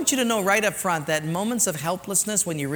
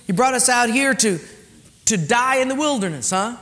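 accusing whine, pitched up; grumbling complaint; 5 semitones higher, 3 dB louder than usual. Acted. People grumbling at Moses, accusing whine. They begin to say.

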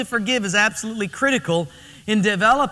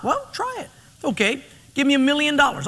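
genie voice; 6 semitones higher than usual. Retold or imitated. Genie answers husband.

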